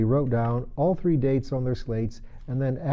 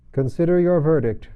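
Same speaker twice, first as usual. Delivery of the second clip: commanding king; 5 semitones higher, 7 dB louder than usual. Acted. King to jury.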